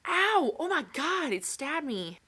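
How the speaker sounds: loud, high yelp of pain; startled pain. Real, not acted. Crafter stabbed by a pine cone, startled yelp. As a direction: yelp as if suddenly jabbed.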